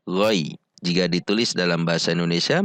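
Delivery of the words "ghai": "ghai" as a short falling "ghoi" glide; short soft swing. Shown as a demonstration. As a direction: swing "ghai" gently and briefly. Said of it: "diayun dengan, dengan pendek dan lembut". ("ghai" diayun pendek dan lembut)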